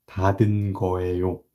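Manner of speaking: fast, firm and sure, with no hedging; definite certainty. Shown as a demonstration. Teacher showing students a certain, fast 닫은 거예요. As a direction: state it as settled fact, quick and certain. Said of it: "I'm delivering it with one hundred percent definite certainty".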